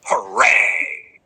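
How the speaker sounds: whispered mock cheer in a put-on voice; mock crowd cheer. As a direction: cheer it like a birthday party. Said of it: "responded by screaming".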